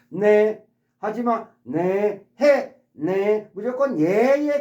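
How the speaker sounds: mock slave answering every order; obedient slave. Teacher acting a slave saying yes to the master, obedient. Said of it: "노예들은요 ... 주인이 말하는".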